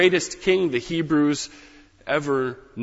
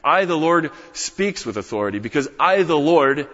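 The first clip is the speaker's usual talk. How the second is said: I and Lord hit louder; stress on I, the Lord; 3 semitones higher, 4 dB louder than usual. Shown as a demonstration. Preacher repeats the Lord's words, stressing authority. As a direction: give I, the Lord full authority. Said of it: "that's authority".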